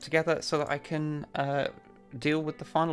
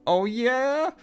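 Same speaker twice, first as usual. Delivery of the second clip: very high squeaky challenge; squeaky taunt; 13 semitones higher, 6 dB louder than usual. Acted.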